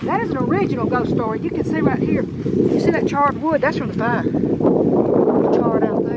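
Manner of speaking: shaky, cold-trembling voice. Real, not acted. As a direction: voice shaking from the cold. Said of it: "I'm sorry if my voice is shaky".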